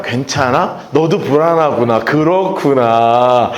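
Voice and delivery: mock-tender counseling voice; empathetic counselor. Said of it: "이렇게 바뀌었어요".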